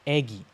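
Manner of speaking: eggy with a rounded, longer e; right vowel. Shown as a demonstration. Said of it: "Not eggy".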